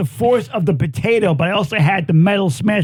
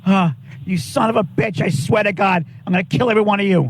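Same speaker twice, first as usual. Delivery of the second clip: furious threat; faster than usual. Real, not acted. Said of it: "my favorite moment".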